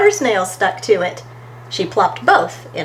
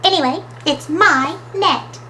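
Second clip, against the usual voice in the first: high-pitched, possessive insistence; stubborn; 6 semitones higher than usual. A narrator's reading. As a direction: dig in, separating the words. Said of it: "said Smudge stubbornly".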